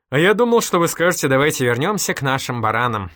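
high, loud giggly outburst, easing down; bursting with amusement. A narrator's reading. Girl teases the policeman about his phrase, bursting with amusement. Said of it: "прыснула Рая".

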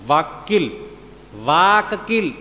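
વાકીલ said with a long first vowel, then વાકકીલ with a doubled, hit k; drawn-out wordplay. Shown as a demonstration. Preacher stretching વકીલ into વાકકીલ to make a pun. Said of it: "કીલ એટલે ખીલો".

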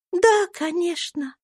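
put-on kind little girl comforting a friend; gentle young girl. A narrator's reading. Little Eva gives Topsy a lock of hair, high and kind.

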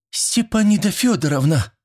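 put-on high-pitched girlish cry of surprise; startled young woman's call; astonished exclamation. A narrator's reading. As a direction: exclaim the name, pitch shooting up. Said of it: "воскликнула Зиночка".

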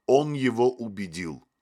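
loud despairing groaned line. A narrator's reading. Motylyok drops his head in his hands, loud groan. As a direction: moan it out in despair. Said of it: "простонал Мотылёк".

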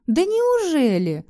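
slow, high, sneering smirk. A narrator's reading. Husband mocking his wife, smirking. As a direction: drag it out with a smirk. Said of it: "ухмыльнулся он".

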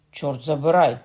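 Coconnas bursts out, cursing; a loud curse flung at the innkeeper; shouted curse at the stubborn host; angry outcry. A narrator's reading. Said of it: "скрикнув Кокона".

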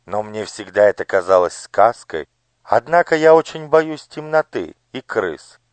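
lightly voiced high, fussy lady; a spoiled daughter talking her father round; pampered lady. (капризный голос дамы)

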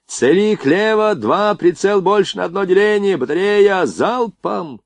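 high, sustained battery order; commanding. A narrator's reading. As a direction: call out firing orders over the guns. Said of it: "командовал поручик".

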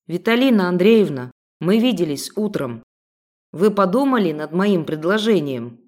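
syrupy, ingratiating tone; butter her up sweetly; oily sweet voice. Acted. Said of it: "Мужской голос сочился елеем".

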